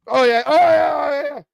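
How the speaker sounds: high-pitched mock celebration; imitated cheering. Boy cheering a touchdown, imitated excited cheer. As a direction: hoot along like a fan.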